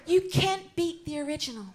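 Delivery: lightly voiced Hollywood starlet, lifted pitch; a hint of screen-siren impersonation; Marilyn Monroe. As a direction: play the starlet chatting to her audience.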